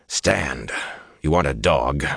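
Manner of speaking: understated gruff order; rough command. Acted. Rand orders kneeling Asmodean to his feet, mildly rough. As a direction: order him up roughly, without raising your voice. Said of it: "he said roughly".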